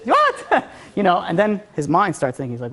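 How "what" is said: high, incredulous yelp breaking into a laugh; hammed-up astonishment; shocked outburst. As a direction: act out stunned disbelief. Prince shocked, repeats his disbelief.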